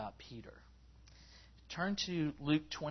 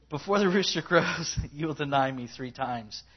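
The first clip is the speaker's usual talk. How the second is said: echoing remembered voice; 6 dB louder than usual. Shown as a demonstration. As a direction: boom it out like a voice echoing in memory. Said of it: "like, an echo thing".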